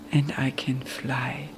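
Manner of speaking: slow, breathless whisper of wonder; hushed whisper. Retold or imitated. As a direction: breathe it out slowly, almost silent. Quoted message from dead daughter. (langsam und fast lautlos geflüstert)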